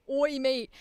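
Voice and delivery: loud traditional Cockney chimney sweep; Cockney accent. Shown as a demonstration. Streamer showing the accent she avoids, loud Cockney. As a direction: call it out in broad Mary Poppins-style Cockney. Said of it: "like, the Cockney".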